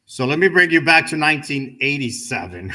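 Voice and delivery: laughing through a mock announcer line; chuckling while playing the storyteller. Speaker laughing at his own age joke to the class. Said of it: "I was like".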